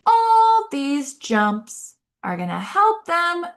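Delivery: high, slow, swooping speech voice; exaggerated sing-song. Shown as a demonstration. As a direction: keep up the big pitch jumps. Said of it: "talk like this".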